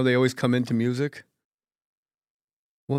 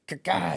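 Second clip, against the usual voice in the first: raised mock karate shout; higher, put-on martial-arts noise; karate cry; 6 semitones higher than usual. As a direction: imitate a karate chop cry. Mimicking karate class shouts.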